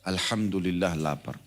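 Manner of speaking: slow, soft and thankful, "Alhamdulillah lapar" said calmly; grateful alhamdulillah. Shown as a demonstration. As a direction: accept the hunger gratefully, unhurried. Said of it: "mulai sekarang ubah ya". (ucapan syukur yang pelan dan lembut)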